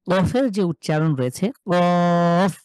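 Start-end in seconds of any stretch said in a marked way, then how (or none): 1.7-2.5 কফ pushed from the back of the tongue; কফ with a hard push at the tongue root; throat push. Shown as a demonstration. Teacher demonstrates কফ to students, pushed hard. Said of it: "ধাক্কা দিয়ে জিভের গোড়া".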